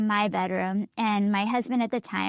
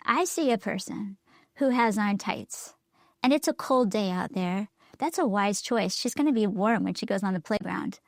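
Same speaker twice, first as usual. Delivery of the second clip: encouraging. Retold or imitated. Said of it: "What could I say that's encouraging".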